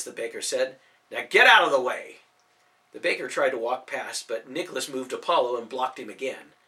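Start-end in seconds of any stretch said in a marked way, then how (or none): 1.1-2.2 louder, barking order; gruff dismissal. Acted. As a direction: shove him aside with your voice. Baker brushing off the hero.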